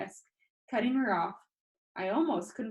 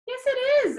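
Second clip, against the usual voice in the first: loud; 9 dB louder than usual. Acted. Frustrated about own comic.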